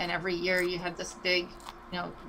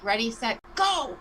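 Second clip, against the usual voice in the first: countdown burst; 3 semitones higher, 4 dB louder than usual. Retold or imitated. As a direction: fire off the start signal. Mimicking a sudden restart.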